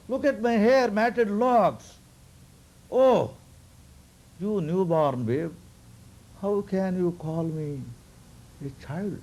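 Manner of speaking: high, mock-offended scolding sage; indignant old sage. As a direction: scold the baby for disrespect, half-hammed.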